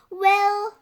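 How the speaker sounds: long, high, loud "well"; slowly. A narrator's reading. Friend hesitating to agree, slow drawn-out word. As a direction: stretch out a doubtful well. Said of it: "Suzanne said slow, slowly".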